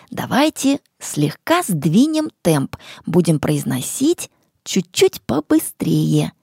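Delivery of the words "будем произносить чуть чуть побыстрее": whisper. Real, not acted. Whispered instruction.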